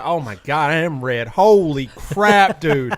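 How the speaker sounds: strained, pained from the heat; gasping through spicy pain; mouth burning from hot food. Real, not acted. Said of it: "What is happening?".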